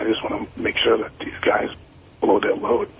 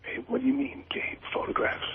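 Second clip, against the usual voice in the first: hushed whisper on the phone; 7 dB quieter than usual. Real, not acted. Caller whispering so nobody nearby hears. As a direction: keep it secret, whisper it. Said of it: "Why are you whispering?".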